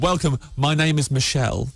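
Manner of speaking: put-on slow, light French accent; a hint of a French host introducing himself. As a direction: greet them like a suave French host, slowly. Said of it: "Go on, have a go".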